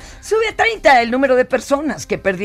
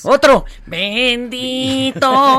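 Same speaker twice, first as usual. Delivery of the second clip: laughing; 2 semitones higher, 4 dB louder, much slower than usual. Pretend. Mocks partner's prayer.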